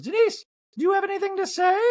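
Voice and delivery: high mock Dorit; Dorit impression. Recapper mocking Dorit questioning Denise, high. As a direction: prod her in a high voice. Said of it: "And Dorit goes".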